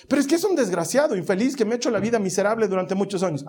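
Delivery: protesting. Pretend. Listener protests to the owner.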